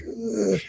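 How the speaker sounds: soft, drawn-out groan of distaste; disgusted ugh. Retold or imitated. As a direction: groan "ugh" quietly at a silly word. Reacting to the fake word.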